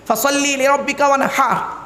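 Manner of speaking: "ওয়ানহার" with a throaty Arabic h; correct Quranic pronunciation. Shown as a demonstration. Preacher teaching a verse to listeners, correct Quranic pronunciation. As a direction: recite it carefully, h of "ওয়ানহার" from inside the throat. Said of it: "উচ্চারণটা ঠিক রাখুন".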